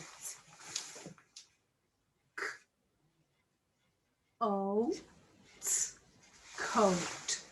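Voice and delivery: "C O T" letter by letter, then "Coat"; sounding out. Shown as a demonstration. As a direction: spell out "C O T" then join "Coat". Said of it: "Sound out coat".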